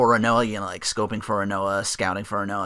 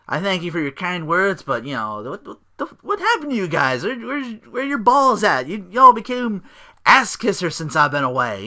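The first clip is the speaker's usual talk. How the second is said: Orton; 7 semitones higher, 4 dB louder than usual. Retold or imitated. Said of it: "Orton takes the mic".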